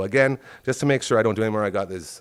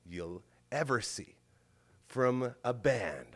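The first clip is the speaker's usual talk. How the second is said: ordinary talk, nothing marked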